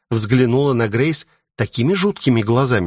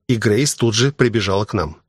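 plain reading voice

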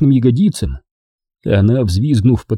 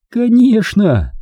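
higher and slow, drawn out; Дженни, playful; 11 semitones higher, much slower than usual. A narrator's reading. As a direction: savour the word, teasing. Jenny voiced. (протяжно и игриво)

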